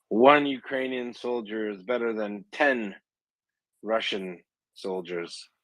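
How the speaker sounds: half-hearted yell in a drawn-out call; mock distant yell. Joke teller as a Ukrainian taunting a Russian general, mock yell. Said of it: "he hears a Ukrainian voice yell out".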